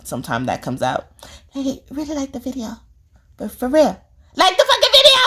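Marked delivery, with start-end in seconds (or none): 1.5-5.2 put-on daughter's playful Asian accent, high; mock Asian accent. Speaker voicing Cleo's playful Asian accent, high. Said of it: "she does her Asian accent".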